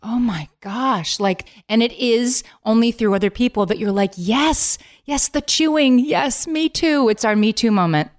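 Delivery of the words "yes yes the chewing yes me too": mock eager agreement.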